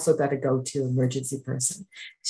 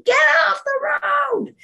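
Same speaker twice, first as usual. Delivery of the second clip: high, loud mock shout of a grumpy man; angry driver yell; 5 dB louder than usual. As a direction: bark it like a furious driver. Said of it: "pulls over to scream at me".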